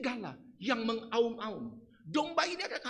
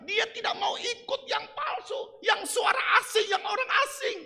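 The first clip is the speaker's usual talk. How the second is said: emphatic refusal; 10 semitones higher than usual. Acted. Preacher acting sheep refusing stranger.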